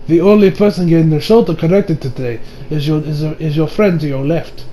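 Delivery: low, soft, solemn imitation; super serious. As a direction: drop low and say it gravely. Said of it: "it gets super serious again".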